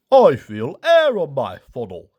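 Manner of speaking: odd, distinct engine voice; Ferdinand peeping. A narrator's reading. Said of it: "he peeped".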